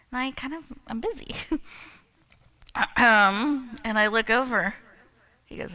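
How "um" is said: imitated throat clear. Husband clears throat for attention.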